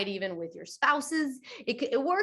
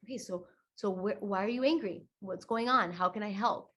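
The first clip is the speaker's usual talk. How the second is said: calm self-talk. Retold or imitated. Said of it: "and you're like".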